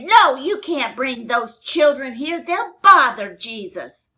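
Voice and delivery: a hint of stern disciples shooing parents away; scolding disciples. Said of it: "they scolded 'em".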